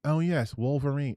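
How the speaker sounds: tentative mock British accent; understated put-on British voice. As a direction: try out a British "Oh, yes". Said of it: "if he's, like, British".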